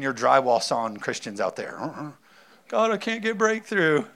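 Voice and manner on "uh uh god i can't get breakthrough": whiny Christian. Pretend. Mock whining Christian.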